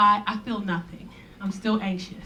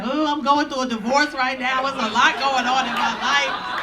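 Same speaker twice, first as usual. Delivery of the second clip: mock crying; 4 dB louder than usual. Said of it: "I start crying".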